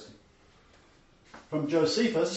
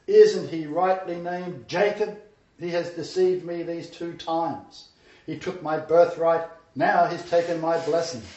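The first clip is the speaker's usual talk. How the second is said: bitter outrage; 3 semitones higher, 6 dB louder than usual. Acted. Esau protesting to his father about Jacob, loud and bitter. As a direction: spit out the injustice.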